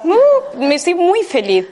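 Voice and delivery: high, bright happy squeal, said with an open body. Shown as a demonstration. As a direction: shout your joy with the body wide open. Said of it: "Así". (feliz y abierta, con un agudo alegre)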